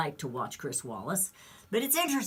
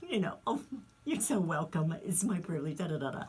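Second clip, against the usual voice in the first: mock giddy; 3 dB quieter than usual. Interviewer gushing back at Nancy's thanks, mock giddy. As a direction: gush in mock delight, then let it fizzle. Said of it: "he got all giddy".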